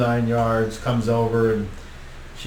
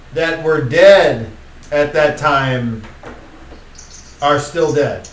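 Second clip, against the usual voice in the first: somewhat higher, slow, grand address; lightly voiced vampire lord; 4 semitones higher, 5 dB louder, slower than usual. Vertigance greeting his old friends, lightly voiced and grand. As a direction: announce it with a touch of theatrical gravity. Same figure continues.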